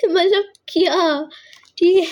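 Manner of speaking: laughing through a quick word. Real, not acted. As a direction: breaks into a laugh. Reader laughs at the punchline. (ہنستے ہوئے)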